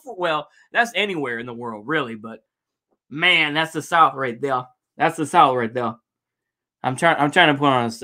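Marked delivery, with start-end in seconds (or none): 3.1-5.9 playfully faked Southern US accent; fake Southern accent. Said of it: "a fake Southern accent there".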